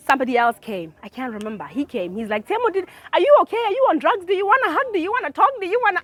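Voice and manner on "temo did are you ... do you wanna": higher, fast, fussing questions; a fast fussing friend, pitched up. Retold or imitated. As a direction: rattle off worried questions. Worried friend voiced in story.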